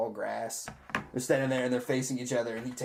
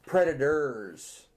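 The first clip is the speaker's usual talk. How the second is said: emphatic, slowed PREDATORS; drawn-out correction; 3 dB louder, much slower than usual. Real, not acted. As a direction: stretch out PREDATORS slowly. Correcting which film was meant.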